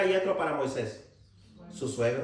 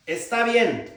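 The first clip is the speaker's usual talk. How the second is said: loud, exasperated exclamation; exclaimed; 4 semitones higher, 5 dB louder, much slower than usual. Acted. God answering Moses in anger, a loud exclamation. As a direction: blurt it out sharply. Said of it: "pero está con signo de exclamación".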